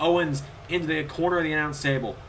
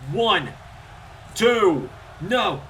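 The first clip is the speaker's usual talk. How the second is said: excited count; 3 semitones higher, much slower than usual. Real, not acted. Commentator counting a pin for viewers, rising excitement. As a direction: ride the near fall up to the kickout. Calling a near fall count.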